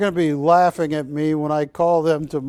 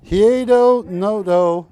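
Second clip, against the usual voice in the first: a hint of an amazed friend, louder; mock disbelief, building to the question; incredulous friend; 5 dB louder than usual. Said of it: "He's gonna be laughing at me, going".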